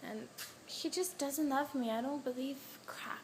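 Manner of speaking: very soft, sinking almost to a whisper; real sadness. Real, not acted. Heartbroken vlogger admitting he doesn't love her, sad. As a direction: say it hushed and defeated. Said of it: "I am so sad".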